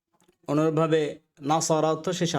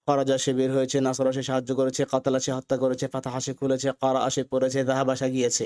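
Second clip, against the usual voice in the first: in one breath; 2 semitones lower than usual. Shown as a demonstration. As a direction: run the whole list without pausing. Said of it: "এক নিঃশ্বাসে বলতে হবে". (এক নিঃশ্বাসে বলা)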